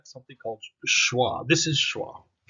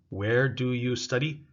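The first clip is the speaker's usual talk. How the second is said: slow model question. Shown as a demonstration. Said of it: "Practice with your partners".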